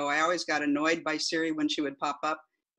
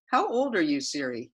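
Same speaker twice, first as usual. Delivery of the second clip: repeating to voice assistant. Acted. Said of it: "this is the transcript of that conversation".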